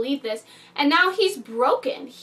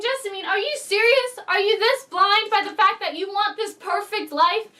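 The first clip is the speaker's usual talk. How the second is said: retold exasperation; 3 semitones higher than usual. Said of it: "I was so mad".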